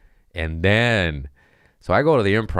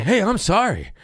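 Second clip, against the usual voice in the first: sheepish; 4 dB louder than usual. Retold or imitated. Apologizing to booker, very high.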